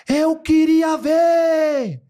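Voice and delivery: high, loud, very drawn-out wail; mock shout. Man imitates girl shouting she wanted to see: high drawn-out shriek. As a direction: shriek it slowly like she did.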